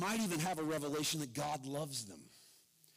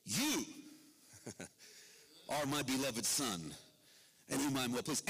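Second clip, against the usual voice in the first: God speaks privately to the drenched Jesus, tender and lower; God's tender words to the son; 4 semitones lower than usual. Acted. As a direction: say it close and loving, just to him. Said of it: "To the water-drenched Jesus".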